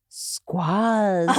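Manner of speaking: imitating the teacher saying "Squaz." with a short flat a; Indian accent. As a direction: say "Squaz." instead of squeeze, laughing. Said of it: "he would say".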